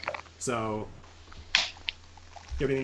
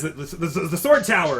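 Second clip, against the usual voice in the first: flustered shout; 4 semitones higher, 5 dB louder than usual. Acted. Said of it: "he's shouting orders".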